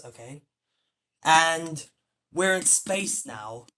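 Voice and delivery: slow, drawn-out prophecy voice; playful fortune-teller reading the future; mock prophet. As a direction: foretell the future like a mock seer, slowly. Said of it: "I'm gonna be a prophet real quick".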